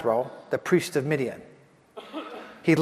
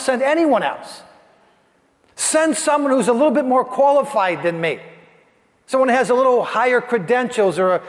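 higher, insistent begging; pleading Moses; 5 semitones higher than usual. Acted. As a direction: beg God to pick someone else.

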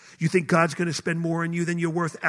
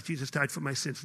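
quoted answer; 4 semitones lower, 8 dB quieter than usual. Retold or imitated. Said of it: "The number one thing I get".

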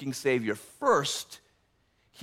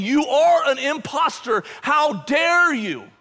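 loud, higher accusing cry; accuser's rebuke; 10 semitones higher, 5 dB louder than usual. Acted. Satan condemning the pastor, loud and accusing. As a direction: hurl the accusation at him. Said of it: "looking at my filthy garments and saying".

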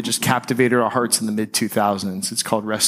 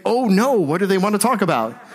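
higher, worried "oh no"; mock dread; 8 semitones higher than usual. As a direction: act out a sudden sinking worry. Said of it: "immediately you're like".

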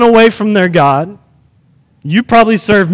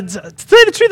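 Jonah; 11 semitones higher, faster than usual. Retold or imitated. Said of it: "I can imagine Jonah's like".

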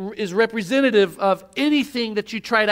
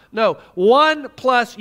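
slow and emphatic; 3 dB louder, much slower than usual. Shown as a demonstration. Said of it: "He's saying, No, no, no".

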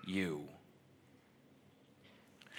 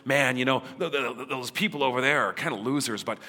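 louder, casual dude voice with a stammer; hammed-up buddy picking favourites; a light impression of a guy ranking people; mock bro talk; 4 dB louder than usual. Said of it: "he looks at you and goes".

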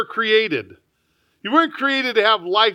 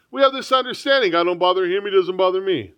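put-on smug old self. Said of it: "I used to say that".

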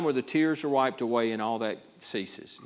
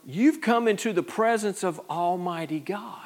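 awed whisper; 7 semitones higher than usual. Real, not acted. Awe at presence of God.

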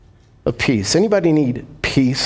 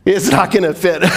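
laughing confession. Acted. Bride confessing pregnancy, laughing.

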